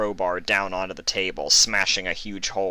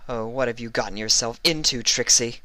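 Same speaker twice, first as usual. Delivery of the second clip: a hint of a wistful Trixie voice, higher; lightly voiced inner thought; 5 semitones higher than usual. A narrator's reading. Trixie fading out, a lightly voiced thought. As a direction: muse on your own failure, barely voiced. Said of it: "she thought".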